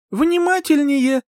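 high, slow insistent demand. A narrator's reading. Heroine urging the prince to watch closely, insistent. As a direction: draw it out high, demanding attention.

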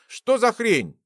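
high, startled question; surprised. A narrator's reading. Gleb seeing a beard sprout suddenly, astonished. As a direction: blurt out in astonishment. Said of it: "удивился Глеб".

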